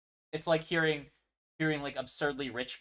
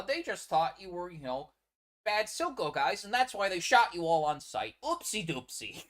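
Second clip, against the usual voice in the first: mock Caitlyn; 5 semitones higher than usual. Mocking Caitlyn as she dismisses the killings in a high sugary voice. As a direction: parody a naive cop talking down to him. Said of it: "And then she reinforced, like".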